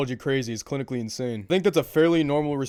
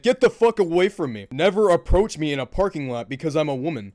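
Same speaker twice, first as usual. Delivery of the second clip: hammed-up indignant rejection; mock outraged outburst; 3 semitones higher, 4 dB louder than usual. Acts out overreacting wallet owner.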